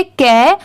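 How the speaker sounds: "कै" with an open ae vowel; correct sound. Shown as a demonstration. Teacher correcting how learners read the syllable, correct sound. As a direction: say "कै" as in carry, not kaa. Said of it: "इसे का नहीं पढ़ेंगे".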